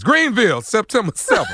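high, loud promoter's shout; big, punchy event plug; revved-up announcement. Real, not acted. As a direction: snap out of the slump and hype the date. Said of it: "why am I talking like this?".

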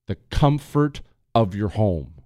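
slow emphatic repeat. Shown as a demonstration.

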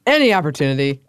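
put-on old Hollywood transatlantic accent; playful transatlantic accent. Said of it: "I would do the transatlantic accent at any opportunity".

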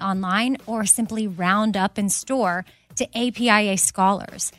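upbeat host-read sponsor spot. Acted. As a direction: sell it like a friendly ad.

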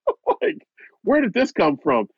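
real stunned laugh at the outburst; laughing disbelief. Real, not acted.

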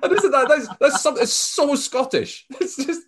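high laughing burst of delight. Real, not acted. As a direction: laugh through the words, tickled. Host laughing at student's answer.

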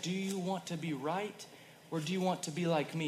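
soft, tender question from a loving father; loving and gentle. Retold or imitated. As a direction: ask it lovingly and quietly. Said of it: "He's so loving".

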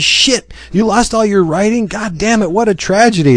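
high, hammed-up dismay; mock distraught editor. Editor hearing the writing is lost, high mock despair. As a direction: wail it like a cartoon boss. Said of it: "And he goes, he says".

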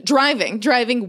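ordinary talk

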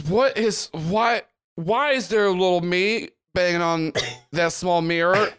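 a confused woman seeing something she can't explain; startled NPC voice. Acted.

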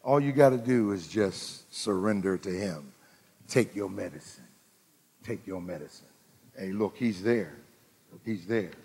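hushed pleading sermon voice. Real, not acted. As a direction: lean in and hush it. Preacher drops to hush.

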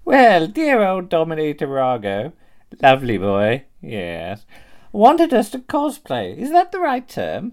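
high, swooping lady voice; put-on high-pitched genteel voice; genteel old-dear character. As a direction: play a fussy dear with big pitch swoops. In-character cosplay opening sketch.

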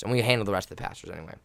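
ordinary delivery

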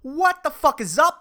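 stretched-out, high excited greeting; hype intro. Acted. Host opening his podcast, stretched excited cry. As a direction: announce the show like a big entrance.

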